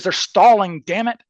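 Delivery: mildly pissy, imitated complaint; retold pissy outburst. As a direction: grumble like an irritated hijacker, lightly acted. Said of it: "he's starting to get pissy".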